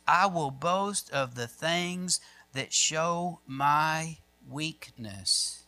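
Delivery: very slow, drawn-out pulpit delivery; weighty, measured close; solemn scripture reading. Acted. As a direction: let each word land, dropping away at the end. Slows to end the reading.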